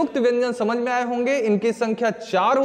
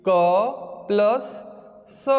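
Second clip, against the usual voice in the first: slow spelled out; much slower than usual. Shown as a demonstration. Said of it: "B विकल्प में".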